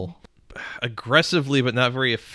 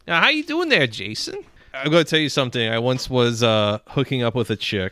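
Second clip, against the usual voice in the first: a hint of a folksy coach leaning in to share a story; Coach Steve impression; 3 semitones higher, faster than usual. Host imitating Coach Steve from Big Mouth, lightly voiced coach. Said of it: "I kinda got good, uh, Coach Steve".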